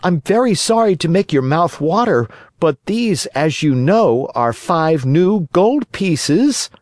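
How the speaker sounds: high-pitched, boastful puppet voice; high little puppet, slowing to boast; indignant puppet boy. Acted. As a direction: show off proudly, pitched high. Pinocchio showing off his gold.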